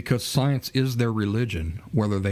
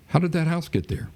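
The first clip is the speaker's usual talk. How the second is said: higher-pitched puzzled question; mock curious questioner; 7 semitones higher than usual. Speaker plays someone asking who built a house, mock curious. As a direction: ask it in a higher, wondering voice. Acted naive question in analogy.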